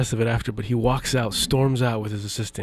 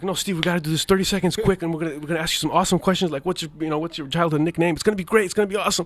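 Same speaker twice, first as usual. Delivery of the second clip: higher, fast, pushy sales pitch; eager pitch; 5 semitones higher, faster than usual. Retold or imitated. Begging Steve to stay for the interview, fast and higher. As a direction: rattle it off to keep him there.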